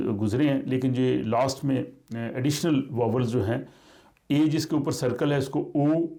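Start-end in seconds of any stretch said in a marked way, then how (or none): 5.8-6.1 ओ as a rounded o, like English o; Swedish Å. Shown as a demonstration. Teacher showing how the ringed Swedish a is said. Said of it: "English वाला ओ समझिए".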